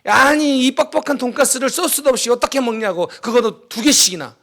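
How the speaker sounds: retold griping in a hurried run; mock grumbling. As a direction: grumble like a griping soldier, mildly. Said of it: "사람들이 불평하기 시작하는 거예요".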